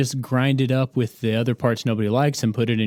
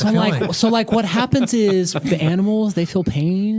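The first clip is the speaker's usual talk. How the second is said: vegan impression; slower than usual. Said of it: "you gotta say "like" at least fifteen times".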